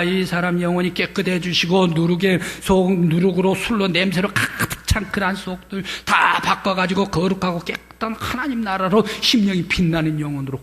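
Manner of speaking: 간절히 매달리며 기도하는 아내; 남편 영혼을 위해 애원하듯; 간절한 기도. Retold or imitated. 아내가 남편 위해 간절히 기도. (간절한 기도 목소리)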